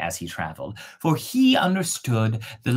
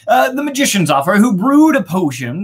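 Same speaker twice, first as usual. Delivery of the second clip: fast, higher redo of the line; quick restart; 8 semitones higher, 7 dB louder, faster than usual. Shown as a demonstration. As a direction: hurry back over the phrase. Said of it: "The youth thankfully accepted the magician's offer".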